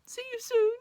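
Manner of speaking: very high, loud wailed goodbye; hammed-up weepy send-off; tearful farewell call. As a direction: call it after him, close to sobbing. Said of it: "she said".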